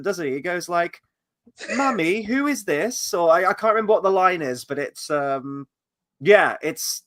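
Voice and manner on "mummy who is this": put-on little British boy, high, drawn-out. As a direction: imitate a British child, pitched up and slow. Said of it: "he has a very British accent".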